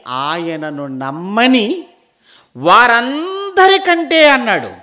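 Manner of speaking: slow, loud proclamation with high, drawn-out phrases; full-force preaching. Acted. Preacher proclaiming scripture on this life's hope, ringing and drawn out. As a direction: proclaim the verse loudly and slowly.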